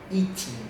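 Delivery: "Eating" ending in N, G unpronounced; final N sound. Shown as a demonstration. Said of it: "sempre termina com o som de N".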